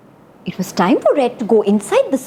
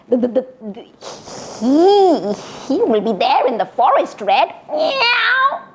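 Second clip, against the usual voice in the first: stammering scared cat; 2 semitones higher than usual. Acted.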